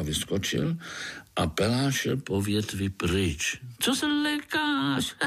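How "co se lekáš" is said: high, quick grinning mosquito; jolly mosquito grinning at a spider. Acted. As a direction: tease the little spider, fast and high.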